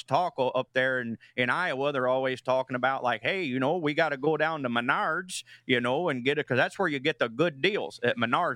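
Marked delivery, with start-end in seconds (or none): 3.2-8.6 put-on Midwest accent. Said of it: "impression you can give us?".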